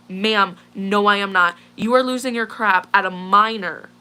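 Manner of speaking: mildly heated, emphatic retort; retold lost temper. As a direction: push back firmly, with a touch of temper. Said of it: "I lost my temper here".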